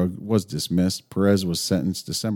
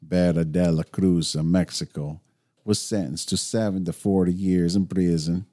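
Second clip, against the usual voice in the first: put-on Mexican accent. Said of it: "you gotta put the Mexican spin on it".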